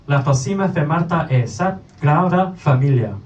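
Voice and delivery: Spanish train conductor proclaiming the next stop; conductor's announcement. Acted. Poet voices a train conductor to the audience, proclaiming announcement. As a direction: announce it in Spanish, within a poem recital. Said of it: "As the conductor loudly proclaims".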